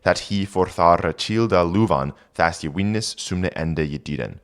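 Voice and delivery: put-on reading Old English aloud; careful Old English pronunciation. Shown as a demonstration. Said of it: "reads Old English text aloud".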